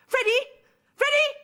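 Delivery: high loud anguished calling; desperate cry. Acted. Woman crying out to Freddie after he rings off, anguished. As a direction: cry his name into the dead line.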